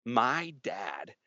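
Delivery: put-on high, slow, worried kid voice rising; a nine-year-old dreading his dad; panicked child thought. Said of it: "And my thought is".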